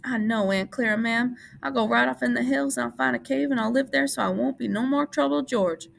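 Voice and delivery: put-on high, grieving childlike promise; grieving Lenny.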